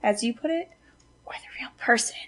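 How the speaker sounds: hushed, breathless whisper. Real, not acted. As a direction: drop to a whisper mid-question. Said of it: "Why are you whispering?".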